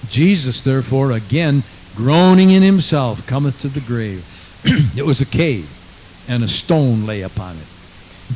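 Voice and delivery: firm, projected Bible reading; scripture reading. Acted. Preacher reading the raising of Lazarus to the church, projected scripture reading. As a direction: proclaim the verses, leaning on key words.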